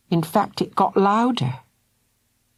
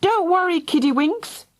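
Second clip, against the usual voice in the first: calling out; 12 semitones higher than usual. A narrator's reading. Mister Thunder calls down to the children. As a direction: call comfort into the tunnel. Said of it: "then called".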